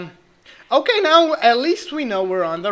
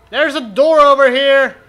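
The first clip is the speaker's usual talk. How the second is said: excited; 4 semitones higher, 9 dB louder than usual. Real, not acted. Sudden discovery, calling out.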